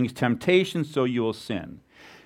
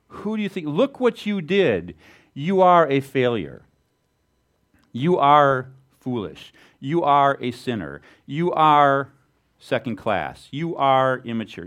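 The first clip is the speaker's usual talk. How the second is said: Satan accusing. Retold or imitated. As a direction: hammer each accusation home. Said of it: "What Satan does is say".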